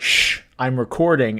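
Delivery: ordinary talk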